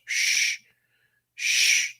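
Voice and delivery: unvoiced shushing hiss; mock shush. Vlogger shushing viewers about the secret flights, mock hush.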